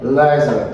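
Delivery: Lézard with a short e sound in the second syllable; corrected vowel. Shown as a demonstration. Teacher models the English word for students, Lézard ending "zer". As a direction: say Lézard like "lezer", falling. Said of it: "C'est pour un E".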